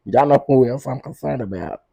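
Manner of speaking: laughing at own joke; laughing tease. Real, not acted. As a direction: giggle through the line. Laughing while teasing.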